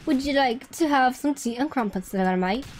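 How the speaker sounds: casual put-on British accent; mock British accent. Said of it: "British people be like".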